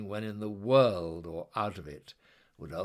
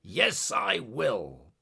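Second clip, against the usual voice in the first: slow, louder, drawn-out promise; shouted; 2 semitones higher, 5 dB louder, much slower than usual. Acted. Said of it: "and shouted".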